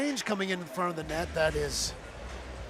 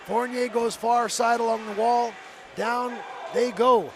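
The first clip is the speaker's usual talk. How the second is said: slow, raised play-by-play call; excited call; 3 semitones higher than usual. Real, not acted.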